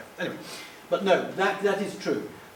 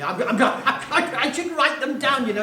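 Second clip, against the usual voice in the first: laughing; 8 semitones higher, 6 dB louder than usual. Real, not acted. Flustered, can't recall names.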